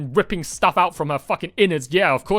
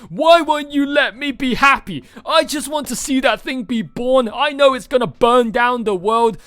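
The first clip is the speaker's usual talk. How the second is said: higher, louder, pleading villain whine; mock villain plea; 5 semitones higher, 3 dB louder than usual. Streamer mocking Kirei's reasoning to Shiro, higher pleading whine. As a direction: ham up Kirei begging to watch the world burn. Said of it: "Kirei's fucking reasonings. Like".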